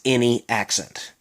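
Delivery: "any accent" with the TH gone from "in the"; Maryland slur. Shown as a demonstration. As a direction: say "in the" as "inny". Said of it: "there's no more the. It becomes".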